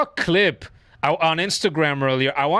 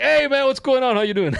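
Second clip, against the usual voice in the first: Steve Austin; 7 semitones higher than usual. Retold or imitated. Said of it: "He's like".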